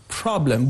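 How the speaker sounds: problem with the stress on the first syllable, PROB. Shown as a demonstration. Teacher showing English word stress, problem stressed on PROB. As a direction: make PROB in problem the prominent, longer syllable. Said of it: "the first syllable has a stress".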